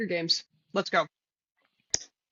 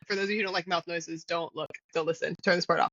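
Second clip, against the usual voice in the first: ASMR voice; 3 semitones lower, 3 dB quieter than usual. Pretend. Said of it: "Tell me if I do a good job".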